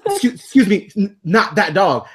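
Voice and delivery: mock embarrassed correction; flustered lady. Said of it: "the lady's like".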